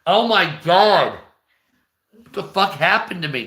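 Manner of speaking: normal talking voice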